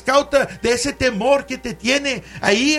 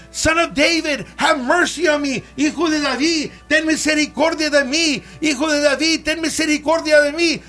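slightly raised, pleading mock cry; retold yell; 3 semitones higher than usual. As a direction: imitate the blind man calling out, without full volume. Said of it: "and he yelled".

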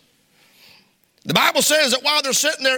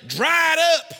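raised, high-pitched mock fatherly shout; stern father; 6 semitones higher than usual. Preacher imitating his daddy to a crying child, stern shout. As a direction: bark it like a dad ordering a child. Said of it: "My daddy just looked at me and say".

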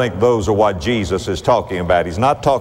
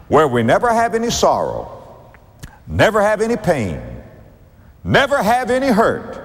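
mock worldly voice; 6 semitones higher than usual. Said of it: "the people of this world would say".

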